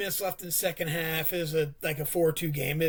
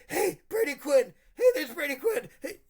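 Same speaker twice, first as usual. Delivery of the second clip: calling out; 8 semitones higher than usual. Retold or imitated. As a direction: announce the star to everyone nearby. Calling out to people after game.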